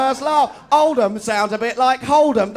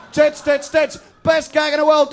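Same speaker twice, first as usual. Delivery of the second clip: shouting; 6 semitones higher, 4 dB louder than usual. Acted. Mocking sitcom crowd chant.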